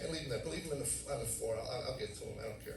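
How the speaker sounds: softly dismissive inner voice; little quiet voice. Acted. Inner voice about leaving tapes, quietly dismissive. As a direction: drop the volume and shrug it off. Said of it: "the little quiet voice".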